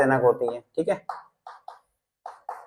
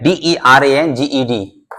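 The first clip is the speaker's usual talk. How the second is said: spelled out slowly; slower than usual. Shown as a demonstration. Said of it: "मैं देखो spelling बोल भी रहा हूँ".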